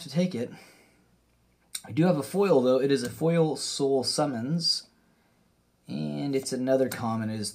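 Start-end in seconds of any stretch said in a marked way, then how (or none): none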